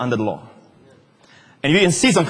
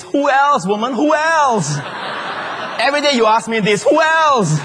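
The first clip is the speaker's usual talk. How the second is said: exasperated husband; 9 semitones higher than usual. Retold or imitated. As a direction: toss it back like an annoyed husband. Adam voiced answering Eve's question.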